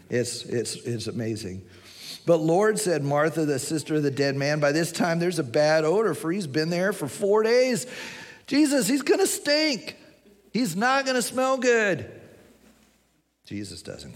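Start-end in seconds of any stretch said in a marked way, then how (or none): 2.3-2.8 louder, raised pitch in protest. Acted. Acting Martha's protest to Jesus. 4.6-12.1 hammed-up objection climbing much higher; alarmed protest. Acting Martha's protest, comically escalating.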